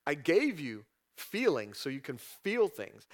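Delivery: God calmly soothing a grieving person; gentle reassurance. Pretend. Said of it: "He's like".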